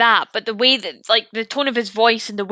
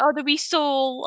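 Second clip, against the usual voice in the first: granny voice; 2 semitones higher, 5 dB quieter than usual. Retold or imitated. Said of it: "My granny says that".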